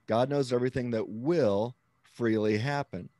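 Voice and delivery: WILL held and weighted; emphatic "will"; stress on WILL. Shown as a demonstration. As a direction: pause after a firm "will". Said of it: "that I'm using now is will".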